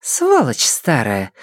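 slow, sneering jab; smirking insult. Acted. Geng smirking at the mayor, slow sneer. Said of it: "ухмыльнулась Гэн Лянь-Лянь".

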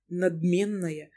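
plain reading voice

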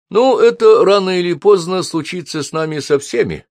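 brisk, bright reassurance; cheerful. A narrator's reading. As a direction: brush it off cheerfully. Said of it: "бодро ответил Майкл". (бодро)

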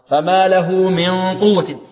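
slow chant, the ن of من hidden in a held nasal hum; ikhfa. Shown as a demonstration. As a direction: hum the ن of من into the ق of قوة. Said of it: "والنون هنا عند إخفائها تتأثر".

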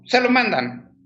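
light imitation of a little girl; little girl's voice. Girl's mysterious last words. (voz de niña, mucho más aguda)

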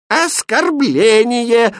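high, drawn-out cry of offence; loud high wail of indignation; outraged cry. A narrator's reading. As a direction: cry out as an insulted princess. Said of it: "закричала она".

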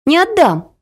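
put-on high, defiant kid's refusal; stubborn child. A narrator's reading. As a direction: dig in like a stubborn little girl. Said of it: "ответила Ася".

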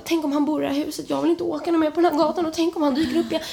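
high, rapid worried rush; anxious thought. Retold or imitated. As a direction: race through a worried what-if.

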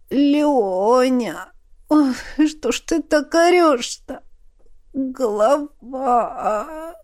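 pained groan, high and dragging on Голова; moaning in pain. Acted. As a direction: groan it out, head splitting. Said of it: "простонала темнота". (со стоном от боли)

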